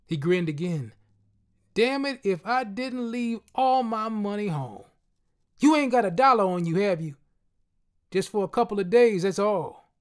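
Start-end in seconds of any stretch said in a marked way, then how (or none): 1.7-9.9 higher, louder friend, sheepish plea; a street friend cadging a dollar; friend asking for money. A narrator's reading. Friend asking the narrator for a dollar, higher and louder.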